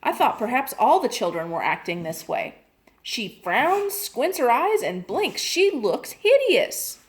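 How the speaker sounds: a mother fretting over her daughter; lightly voiced upset mother on the phone. Worried mother pours out trouble.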